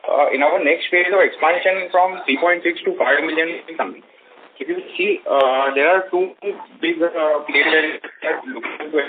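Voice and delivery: muffled, hand over the mouth; dull, covered sound on the line. Real, not acted. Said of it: "You're sounding muffled".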